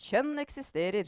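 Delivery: high, loud declaration; shouting. A narrator's reading. Mother insisting to her family, shouting. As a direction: cry it out as undeniable fact. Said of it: "ropte moren".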